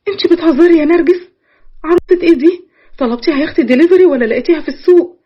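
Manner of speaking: can't believe what she hears; disbelieving. Acted. The sister questions Nargis in stunned disbelief.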